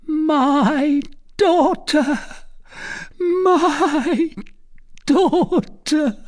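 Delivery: very high, slow, drawn-out exclamation; joyful cry. A narrator's reading. Recluse beaming with celestial joy at daughter, joyful cry. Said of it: "as she cried".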